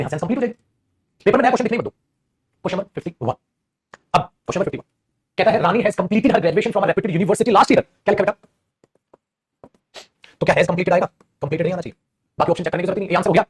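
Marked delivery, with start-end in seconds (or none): 5.6-7.8 slow read-aloud. Shown as a demonstration. Teacher reads question aloud.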